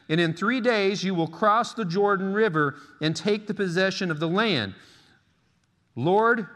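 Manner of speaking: emphatic preacher reading the Bible aloud; scripture reading. Acted. Reads scripture aloud to congregation.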